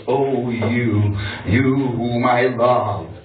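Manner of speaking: theatrical threat to a lover; menacing revenge poem. Acted. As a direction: draw out the threats in dramatic spoken-word style.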